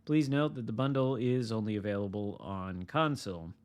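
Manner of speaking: upbeat announcer read; news read. Acted. Reading patch notes aloud.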